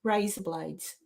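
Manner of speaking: Australian vowels in razor blades. Shown as a demonstration. Friend asked to say razor blades in Australian. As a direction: says razor blades in her own Australian accent. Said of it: "can you say something for me".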